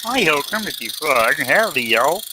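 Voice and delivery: mock his bad Southern accent as Kermit; Kermit-like Southern hick. Teasing cohost about his bad Southern accent, Kermit-like. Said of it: "He talked like this".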